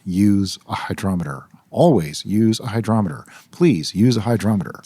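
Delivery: calm, measured public announcement; sedate announcer voice. Acted. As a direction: announce it like a PA message. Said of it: "this is my sedate announcer voice".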